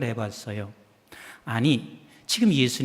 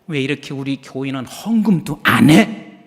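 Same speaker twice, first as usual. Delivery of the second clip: mock complaint; 4 semitones lower, 5 dB louder than usual. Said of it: "막 불평하기 시작해요".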